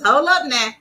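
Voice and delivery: a light, playful hint of a sassy crafter; lightly voiced crafty Leo saying "Hold up now.". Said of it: "in my crafty Leo voice".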